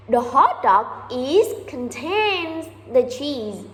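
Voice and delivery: slow, halting non-native phrasing; slow broken English. Retold or imitated. French engineer explaining the cheese hot dog again, slow broken English. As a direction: lay each word down slowly, hoping he gets it.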